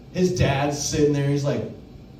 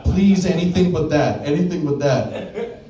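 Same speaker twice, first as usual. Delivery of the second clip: laughing plea; 3 dB louder, slower than usual. Retold or imitated. Begging coworker not to do it.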